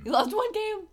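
high, incredulous question; sudden disbelief, pitch jumping up; surprised. Real, not acted. Surprised at partner's single loss.

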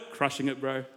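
soft, low lazy bro voice; laid-back surfer bro. Acted. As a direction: toss it off like a chill surfer. Acted casual bro reply.

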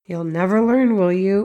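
mock scolding jab tacked on the end; sarcastic insult. Parent jabbing at a child over laundry, sarcastic. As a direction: sneer it as a put-down. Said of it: "maybe leaving off an insult at the end".

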